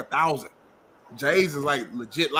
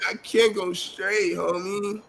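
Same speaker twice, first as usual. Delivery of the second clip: slow, higher mocking whine of panic; mock panicked whine; 5 semitones higher, much slower than usual. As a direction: drag it out like a scared captain. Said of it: "I could tell by your voice".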